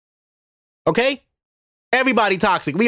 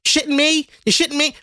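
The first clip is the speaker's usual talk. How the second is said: mocking Uptown phrase; 6 semitones higher than usual. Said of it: "like that shitting me thing".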